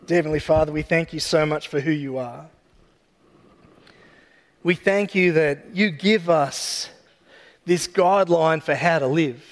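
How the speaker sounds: gentle, unhurried closing prayer. Real, not acted.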